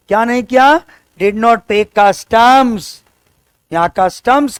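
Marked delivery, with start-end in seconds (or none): 1.2-2.9 very slow, word by word; slow dictation. Shown as a demonstration. Teacher dictating to the class, very slow. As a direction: dictate it slowly for students to write. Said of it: "teacher dictates slowly".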